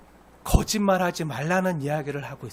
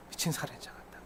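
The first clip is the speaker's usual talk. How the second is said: near-whisper, grave echo; hushed repetition; 4 semitones lower, 17 dB quieter than usual. Real, not acted. Preacher echoing God's verdict to congregation, hushed. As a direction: drop to a hush for the verdict.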